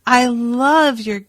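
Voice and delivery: mock drunk, slow and slurred; sway through it like a happy drunk; hammed-up tipsy flattery, slowly drawn out; drunken Doctor. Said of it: "sort of staggering".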